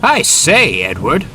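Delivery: high, loud call across the yard. A narrator's reading. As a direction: call out to Edward. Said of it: "called Gordon".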